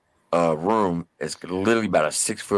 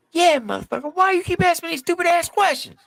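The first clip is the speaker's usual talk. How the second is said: much higher, squeaky hostile bravado; aggressive high-voiced tough guy; 3 dB louder than usual. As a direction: play him as a loud little punk. Private snaps.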